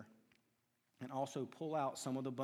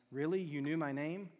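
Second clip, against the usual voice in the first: astonished; 2 semitones higher, 3 dB louder than usual. Acted. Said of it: "opened his eyes in astonishment".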